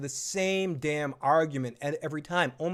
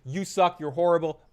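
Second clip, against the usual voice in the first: mock angry rant. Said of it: "someone's basically like".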